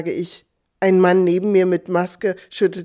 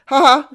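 short loud "Haha" laugh, higher; mock laugh called out; 5 semitones higher, 7 dB louder than usual. Wife teasing her husband with a loud ha-ha. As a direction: call out a teasing ha-ha. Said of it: "rief ich".

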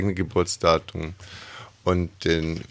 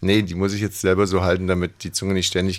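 mushy speech, tongue held in place; holding tongue. Pretend. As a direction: talk around a fixed tongue. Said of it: "wieso kannst du dann nicht mehr vernünftig reden".

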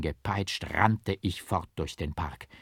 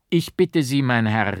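loud, higher-pitched indignation; raised voice, incensed; angry cry; 4 semitones higher, 8 dB louder than usual. A narrator's reading. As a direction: burst out in angry protest. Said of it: "rief ich erzürnt".

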